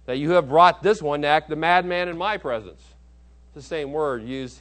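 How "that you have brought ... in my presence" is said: king's retort. Retold or imitated. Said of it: "He says".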